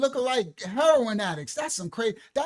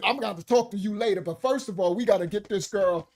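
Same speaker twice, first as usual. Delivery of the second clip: fast grandma scolding; 2 semitones lower than usual. Retold or imitated. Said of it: "My grandmother said".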